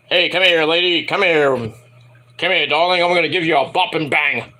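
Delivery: low, lazy come-on; teasing a lady with the move name; mock seductive. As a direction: lure her in with a cheesy croon.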